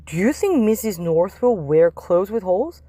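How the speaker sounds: hushed secretive whisper. Acted. Boy whispering to friends about their teacher. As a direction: whisper it so the teacher can't hear.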